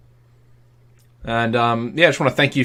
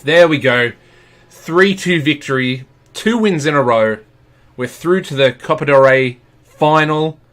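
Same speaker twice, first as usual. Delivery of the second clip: excited; 3 semitones higher, 4 dB louder than usual. Real, not acted. Celebrating the victory.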